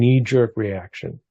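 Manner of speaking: "knee-jerk" slowed and leaned on; stress on jerk. Real, not acted. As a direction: put emphasis on the word "jerk". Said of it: "Emphasis on the word jerk".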